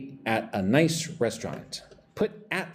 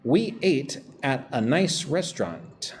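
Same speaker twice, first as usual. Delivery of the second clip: slow model sentence; slower than usual. Shown as a demonstration. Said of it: "Number two".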